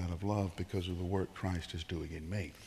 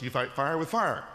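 quoting the world; 4 semitones higher, 3 dB louder than usual. Retold or imitated. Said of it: "The world says".

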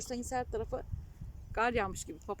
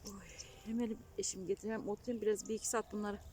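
whispering; 6 dB quieter than usual. Real, not acted. Unvoiced repeat of line 72.

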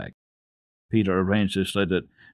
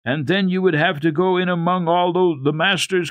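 put-on higher, louder girl voice pressing on; eagerly; 9 semitones higher, 5 dB louder than usual. A narrator's reading. Girl eagerly frightening the boy about school. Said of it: "continued Heidi eagerly".

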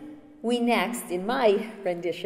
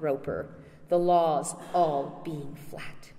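impassioned rhetorical questioning; roused, excited. Acted. More challenges Roper on cutting down laws, roused. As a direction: press the argument with stirred conviction. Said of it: "now roused and excited, says".

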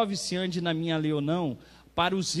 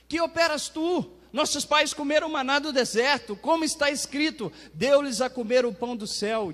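high, raised voice for the crowd's challenge; forceful scripture reading; 9 semitones higher, 6 dB louder than usual. Acted. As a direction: read it out as an insistent public challenge. (leitura bíblica em tom alto de cobrança)

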